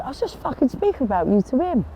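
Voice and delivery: put-on Brentwood accent. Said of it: "that was my Brentwood accent".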